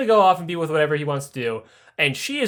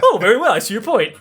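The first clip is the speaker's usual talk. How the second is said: grudging nobleman; 4 semitones higher, 5 dB louder than usual. Retold or imitated. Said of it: "put all the guns at him".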